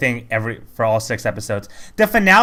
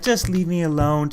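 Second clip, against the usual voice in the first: slow, higher mock-emo voice; Mimi; 5 semitones higher, slower than usual. Quoting defeated minion who wants to fall, mock emo. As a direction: imitate a mopey minion, drawn out and raised. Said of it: "they're very emo and suicidal".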